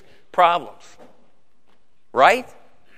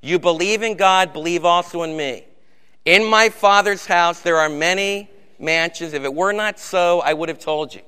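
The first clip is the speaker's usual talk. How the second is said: recited scripture. Acted. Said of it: "say 'em with me".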